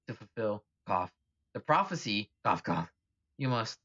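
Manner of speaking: coughing spirit guide. Acted. Spirit message interrupted by coughing.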